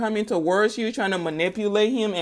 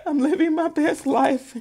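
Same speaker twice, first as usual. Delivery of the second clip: high, laughing self-satisfied quote; laughing boast; 5 semitones higher than usual. Acted.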